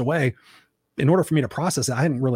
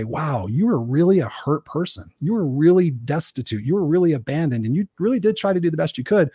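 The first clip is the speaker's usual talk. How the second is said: tender address to mom; 3 semitones higher than usual. Retold or imitated. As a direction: speak to her gently, with acceptance. Speaking to his late mother.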